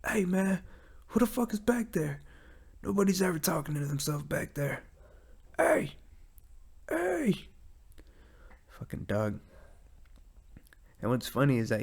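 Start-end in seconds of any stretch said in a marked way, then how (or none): 0.1-7.5 high, mock-indignant dog voice rising to a whisper; dog's voice. Pit bull dog questioning the owner talking to himself, high voice. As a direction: voice the dog as a nosy guard. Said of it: "He's like".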